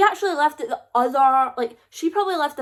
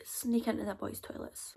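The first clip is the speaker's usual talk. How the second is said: disbelieving echo; 13 dB quieter than usual. Retold or imitated. Incredulous echo of Lily's idea.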